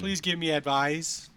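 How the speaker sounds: slow, high plea with "advice" said as "ad-VIZE"; drawn-out "advice" pronounced like "advise"; misspelling read out. Shown as a demonstration. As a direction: end "advice" on a z sound, like the verb. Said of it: "She said advise".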